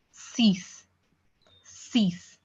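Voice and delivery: "six" pronounced "sees", long ee and hissed s; French six. Shown as a demonstration. Teacher models French number six, French pronunciation. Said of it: "Not six".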